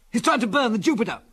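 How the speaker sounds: high-pitched, urgent exclamation; alarmed yell. A narrator's reading. Biggles realising the enemy's plan, alarmed yell. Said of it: "yelled Biggles".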